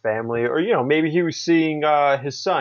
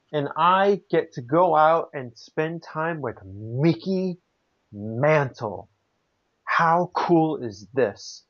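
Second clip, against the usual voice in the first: retold amazement, slow and drawn out; mock fanboy wonder; 3 semitones higher, slower than usual. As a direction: savour it like a starstruck kid, imitating. Retelling a legend's fanboy wonder.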